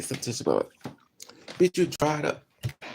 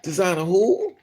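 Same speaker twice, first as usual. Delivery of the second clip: incredulous; 3 semitones higher, 4 dB louder than usual. Real, not acted. Mocking the claim loudly.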